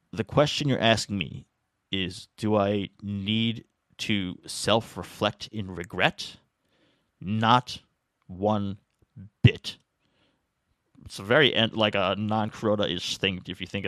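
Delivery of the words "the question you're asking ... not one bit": unhurried, firm dismissal, slow on self-reflect; a lightly voiced calm governor shutting it down. Kuroda answering the reporter, calm firm brush-off. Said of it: "very calmly and firmly respond".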